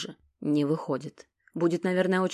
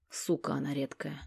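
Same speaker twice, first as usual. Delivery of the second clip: muttered aside; 2 semitones lower, 9 dB quieter than usual. A narrator's reading. Muttered aside under breath.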